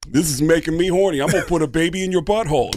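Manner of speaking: a hint of Tracy Morgan, fast; lightly voiced Tracy Morgan. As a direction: breeze through a Tracy Morgan line. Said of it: "a quick Tracy Morgan".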